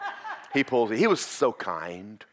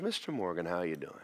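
imitating nice officer; 3 semitones lower, 8 dB quieter than usual. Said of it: "He was so nice".

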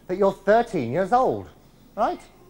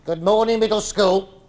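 headmaster greeting; 5 dB louder than usual. Pretend.

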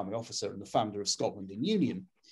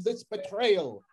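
put-on slow, drawn-out Scottish accent, pitched higher; a hint of a Scottish accent, slowed right down; mock Scottish accent; 8 semitones higher, much slower than usual. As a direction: put on a Scottish accent for a moment, mocking Ian Blackford. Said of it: "Sorry for my accent there".

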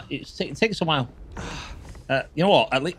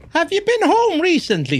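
higher, louder Irish lilt on home; Irish accent; 12 semitones higher, 5 dB louder than usual. Retold or imitated. Streamer teasing viewer Flash, in a mock Irish accent. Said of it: "That's what the Irish do".

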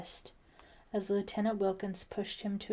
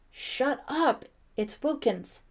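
loud, angry snarl; 5 semitones higher, 6 dB louder, slower than usual. A narrator's reading. Brian silencing Ellie as police arrive, snarled. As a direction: cut her off fiercely. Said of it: "Brian snarled".

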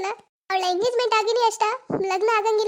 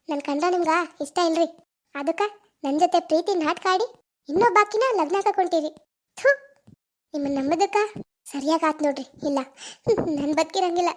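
much lower, broken and hopeless; despairing; 6 semitones lower than usual. Acted. Girl telling her lover she cannot go on. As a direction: sink into despair.

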